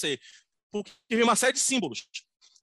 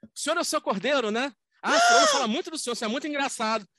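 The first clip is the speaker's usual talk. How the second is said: gushing woman; 7 semitones higher than usual. Retold or imitated. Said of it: "e falou assim".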